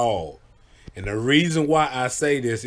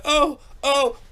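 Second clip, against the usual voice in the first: high, whiny moan; mock drunk whine; 13 semitones higher than usual. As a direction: whimper like a drunk friend. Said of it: "one minute he like".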